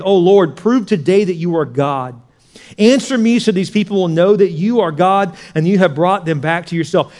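loud, ringing call to God; confident prayer. Acted. Elijah prays at the altar before the people, confident. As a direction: declare it boldly to heaven. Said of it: "point out the confidence of Elijah".

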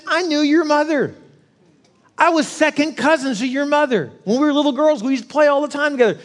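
put-on fond old woman remembering; old lady. Old lady recalls cousin.

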